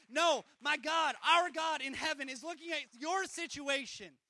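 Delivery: booming preacher declaration; preaching shout. Real, not acted. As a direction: proclaim it with full force.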